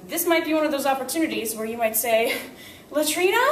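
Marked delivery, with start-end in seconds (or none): 2.9-3.4 urgent plea. Shown as a demonstration. Student urgently asks for the restroom.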